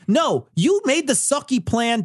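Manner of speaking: usual speaking voice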